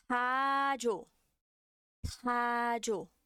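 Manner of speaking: "tajo" with a breathy aspirated t; aspirated Korean t. Shown as a demonstration. Teacher gives example word for class, aspirated. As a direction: puff air into the t of "tajo".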